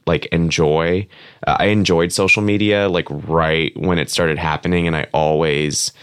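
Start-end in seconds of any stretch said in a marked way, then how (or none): 0.3-1.1 "enjoy" said slowly and deliberately; slow, weighted "enjoy"; stress on ENJOY. Shown as a demonstration. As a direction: draw out the word "enjoy" for emphasis. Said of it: "emphasis on the word".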